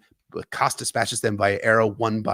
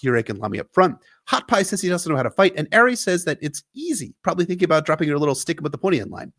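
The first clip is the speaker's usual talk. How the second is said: ordinary talk, nothing marked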